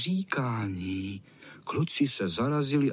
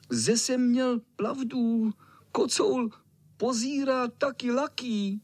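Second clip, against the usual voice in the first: put-on lisping little boy; 12 semitones higher, slower than usual. A narrator's reading. Little boy proving he was right about the cat, high lisping cry. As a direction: cry it out triumphantly like a small child who can't say r. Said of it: "křičel malý".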